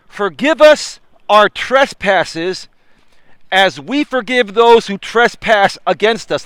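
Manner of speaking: slow solemn preacher cadence; preaching. Acted. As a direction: draw out each word like a sermon. Preaching the prayer slowly.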